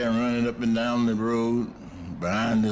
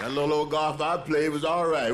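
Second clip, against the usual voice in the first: laughing; 5 semitones higher than usual. Real, not acted. Jokes about his career, laughing.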